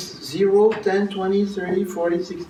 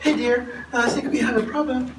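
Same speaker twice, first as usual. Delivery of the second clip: mock mild complaint; 8 semitones higher than usual. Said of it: "She looks like".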